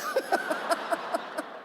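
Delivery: quiet airy chuckle; breathy laugh. Real, not acted. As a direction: laugh softly at yourself. Laughing at own frenzy. (tawa berdesah pelan)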